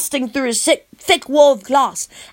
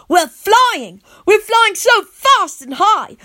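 high, loud, excited cry; thrilled; 10 semitones higher, 6 dB louder, slower than usual. A narrator's reading. Boy flying away with his rescuer, thrilled. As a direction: whoop with joy.

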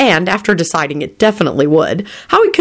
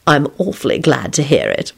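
easy, slightly lowered reply; pleasant; 3 semitones lower than usual. A narrator's reading. Lupin answering an insult, unruffled and pleasant. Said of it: "Lupin replied pleasantly".

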